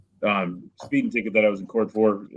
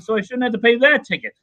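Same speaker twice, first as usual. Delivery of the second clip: much higher and louder, mock outraged trucker; angrier retold protest; 11 semitones higher, 5 dB louder than usual. Trucker protesting to the judge, rising mock outrage. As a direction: push the indignation up a notch. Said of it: "he's all mad about it".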